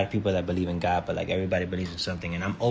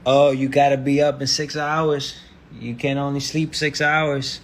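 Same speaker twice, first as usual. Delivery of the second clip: high, loud nagging businessman impression; mock businessman; 7 semitones higher, 7 dB louder than usual. Businessman telling you to get up, mocking high voice. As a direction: imitate a businessman laying down the rules, raised voice. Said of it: "when a regular businessman is like".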